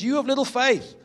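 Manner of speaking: high, forceful preacher's rebuke; rebuking. Acted. Preacher voicing Jesus to anxious followers, rebuking. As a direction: rebuke them sharply, pitch lifted high. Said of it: "Jesus rebukes them".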